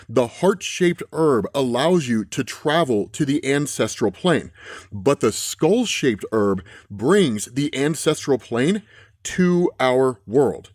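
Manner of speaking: slow, deliberate comic narration; dramatic caption reading. Acted. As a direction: read the caption like a slow dark trailer. Reads comic dialogue slowly.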